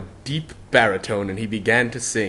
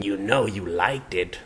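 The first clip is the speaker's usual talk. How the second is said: confident; 4 dB quieter than usual. Acted. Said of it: "the hat said confidently".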